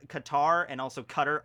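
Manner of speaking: Qatar said first as kuh-TAR, then as CUT-er; Qatar, kuh-TAR versus CUT-er; two ways to say Qatar. Shown as a demonstration. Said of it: "I've heard it pronounced".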